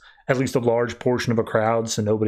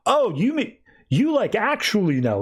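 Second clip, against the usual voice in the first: higher, mock-surprised question; surprised dad; 8 semitones higher than usual. Father asking mother about their son, higher mock surprise. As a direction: play the husband caught off guard.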